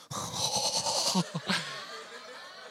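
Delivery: long, voiceless breathy gasp; drawn-out airy reaction of mock shock; acted shocked gasp. Husband told to give money away, acted gasp.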